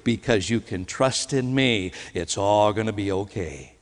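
softly spoken, low and unhurried comfort; soft, gentle certainty. Acted. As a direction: reassure gently but surely, taking your time. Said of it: "says softly and gently, but with great certainty".

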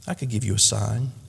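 soft, low tender reply; quiet tenderness, softly offered. Acted. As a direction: speak gently, lowering the voice. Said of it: "he tenderly said".

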